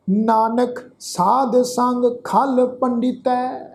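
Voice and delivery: slow, measured verse with long-held vowels; scripture recitation. Acted. Teacher reciting a shalok to the congregation, slow sustained recitation. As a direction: recite each line slowly, sustaining the endings.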